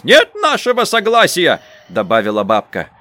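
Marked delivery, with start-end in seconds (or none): 0.0-1.6 high, louder granny's refusal; stubborn old woman. A narrator's reading. Old granny refusing consent, high and stubborn. Бабка отказывает.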